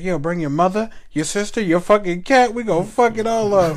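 retold challenge. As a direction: shout it, half laughing. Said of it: "my dumb ass was like".

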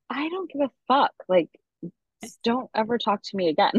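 high, heated retelling of a kiss-off; furious retort. Retold or imitated. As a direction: fling it at him in retold anger, pitch jumping way up. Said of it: "And I'm like".

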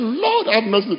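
high-pitched mock cry for mercy; retold scream. Preacher recalls his cry after forgetting announcement, mild scream. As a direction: re-enact a dismayed cry to God. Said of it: "I screamed. I said".

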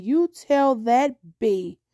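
slow, deliberate retold order; firm dictated message. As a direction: spell out a message to pass on, slowly. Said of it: "You say it just like this".

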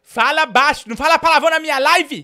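loud, high comic rant of accusation; mock furious yelling. Host yelling at the caller he blames for stolen sausages, furious. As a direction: bellow at him like a robbed neighbour.

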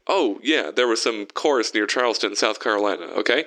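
talking between breaths; breathless, winded phone reply. Retold or imitated. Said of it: "sounded a little out of breath".

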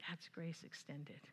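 soft unvoiced whisper. Real, not acted. Whispered to the congregation, slow and hushed. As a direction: breathe the point out, slowly. Hushed point after the story.

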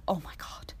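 breathy whispered cringe, almost toneless; cringing whisper. Retold or imitated. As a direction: whisper it like you're embarrassed by yourself. Cringing at old videos.

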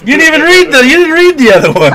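high, loud, indignant outburst; quick squawk of objection; loud protest. Real, not acted. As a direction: call them out at full pitch. Protesting at a botched card reading.

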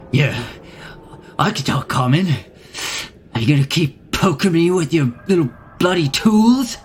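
put-on lightly done Queens wise-guy accent; a small creature talking like a guy from Queens; light New York Queens accent, a touch brash. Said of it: "I'm from Queens".

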